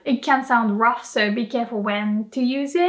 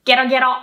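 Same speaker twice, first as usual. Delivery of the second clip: frog croak; 5 dB louder, much faster than usual. Shown as a demonstration. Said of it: "the sound frogs make".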